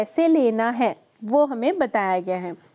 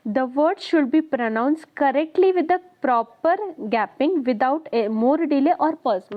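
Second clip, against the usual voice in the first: reading a definition aloud very slowly; slow dictation; much slower than usual. Acted. Teacher dictating a definition to the class, very slowly. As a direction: spell it out slowly for students to note down.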